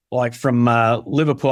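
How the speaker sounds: British attempt drifting into Australian accent; slipping Scouse attempt. Shown as a demonstration. Actor attempting Scouse for the host, slipping into Australian accent. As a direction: try a Liverpool accent and slide into Australian. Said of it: "now I'm slipping into Australian".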